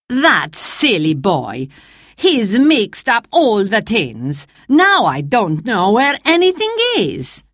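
a mild hint of a cross chef; annoyed chef. Chef finding the tins mixed up, mildly cross grumble.

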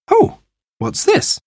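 high, curious exclamation; slow, high note of wonder; surprised. A narrator's reading. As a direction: discover something unexpected. Mother discovers a mysterious box.

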